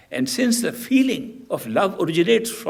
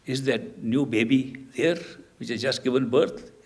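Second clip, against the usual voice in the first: somber; 2 semitones lower than usual. Acted. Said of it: "Narad Muni very somberly said".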